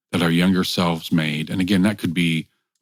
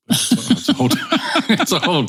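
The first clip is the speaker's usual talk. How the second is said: laughing; 13 semitones higher, faster than usual. Real, not acted. Joking about crying for wine.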